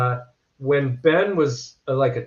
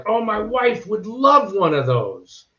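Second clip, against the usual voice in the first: higher, slow mock-customer voice; 7 semitones higher, slower than usual. Customer eyeing the soup ladles, mock higher and slow. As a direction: put on the browsing customer. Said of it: "they would go like".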